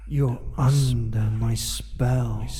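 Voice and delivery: soft, slow, close voice; soft slow murmur. Acted. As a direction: murmur it slowly and softly. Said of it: "and whisper into your ear".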